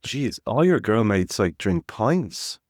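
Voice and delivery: slow, drawn-out amazement; wife amazed at her friends' drinking, slowly. Retold or imitated. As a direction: stretch it out in disbelief. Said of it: "she was like".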